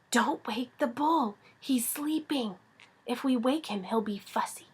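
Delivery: soft, hushed warning; Pippi's stage whisper. A narrator's reading. Pippi warning Annika about the sleeping bull, whispering. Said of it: "whispered Pippi".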